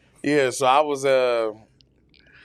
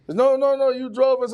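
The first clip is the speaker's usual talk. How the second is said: lightly voiced truck driver; 11 semitones higher than usual. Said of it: "And he was like".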